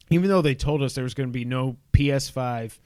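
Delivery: talking around ice in the mouth; words slurred by a mouthful of ice. Real, not acted. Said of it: "I've got ice in my mouth".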